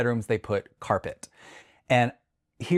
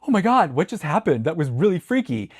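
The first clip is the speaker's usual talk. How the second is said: higher, louder startled outburst; retold panic; 6 semitones higher, 4 dB louder than usual. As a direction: act out waking up freaked out. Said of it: "I'm panicking".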